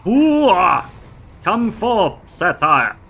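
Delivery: loud, high summoning bellow; loud gung-ho soldier. Pretend. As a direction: call it forth like a warlord. Summoning pet with war cry.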